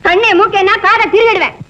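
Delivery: indignant threat. Acted. Woman threatens the man pestering her, indignant. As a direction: warn him off indignantly.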